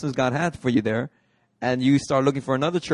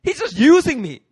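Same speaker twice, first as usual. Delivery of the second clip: much higher, complaining whine; mock teen complaint; upset teen; 14 semitones higher, 3 dB louder than usual. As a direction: whine like a fed-up kid. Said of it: "He's all upset".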